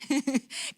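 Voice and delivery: soft little laugh of disbelief; short incredulous laugh. Retold or imitated. Employer reacts to being blamed, soft incredulous laugh. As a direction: let out a quiet, brief chuckle.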